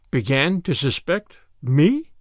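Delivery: slow, intent repeat; increased intensity. Acted. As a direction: press each word, intent. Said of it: "with increased intensity".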